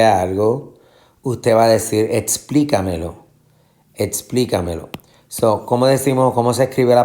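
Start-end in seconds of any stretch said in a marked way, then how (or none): 2.1-4.9 explícamelo with PLÍ stressed, falling after. Shown as a demonstration. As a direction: lean on the second syllable of explícamelo. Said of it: "vas a tener la fuerza de pronunciación". (explícamelo con acento en PLÍ)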